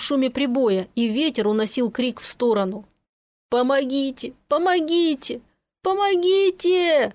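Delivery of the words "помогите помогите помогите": rising, ever higher yells; yelling for help. A narrator's reading. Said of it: "орал Есеня изо всех сил". (крик изо всех сил)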